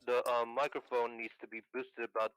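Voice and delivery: tinny telephone voice, narrow band; carbon mic. Real, not acted. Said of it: "you hear my voice beautifully well".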